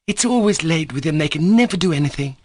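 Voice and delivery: high, angry outburst; a woman fed up and shrieking; angry near-shriek. A narrator's reading. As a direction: lash out at them. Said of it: "almost shrieked in her anger".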